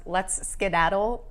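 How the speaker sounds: dad voice. Retold or imitated. Quoting parents' saying.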